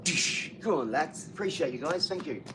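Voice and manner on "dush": punchy "dush" sound effect; whooshing mock punch noise; imitated impact noise. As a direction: voice a quick hit with a long shh. Spoken sound effect for shout-out.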